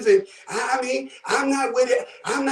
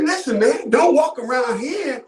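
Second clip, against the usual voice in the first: half-shouted street warning to a stranger; a brother warning a man off the block; retold warning. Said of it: "He said".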